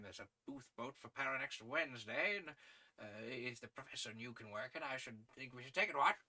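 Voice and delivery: lightly voiced hearty sportsman; English gentleman adventurer. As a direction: talk rugby and business with breezy authority.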